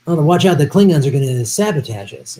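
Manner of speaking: hammed-up starship captain warning; Shatner reading a line. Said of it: "he's reading a line, he's like".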